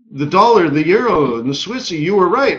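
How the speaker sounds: like he can't believe you nailed every one; excited admission. Retold or imitated. Billionaire excitedly lists correct calls.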